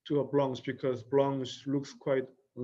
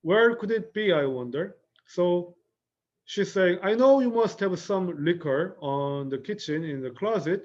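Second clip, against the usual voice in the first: playful pretend search; 4 semitones higher, 3 dB louder than usual. Acted Blanche pretending to search liquor.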